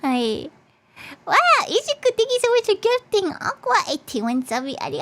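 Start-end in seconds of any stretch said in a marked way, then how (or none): 1.2-4.8 excited thanks. Real, not acted. Big gift sub thanks.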